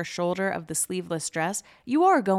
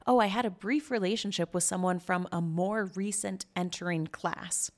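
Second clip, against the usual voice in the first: sarcastic repeat, leaning on "more recent entering class"; dryly mocking the dainty wording; mock-genteel euphemism. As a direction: quote it with pointed, fake-innocent delicacy. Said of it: "isn't that just the most lovely way".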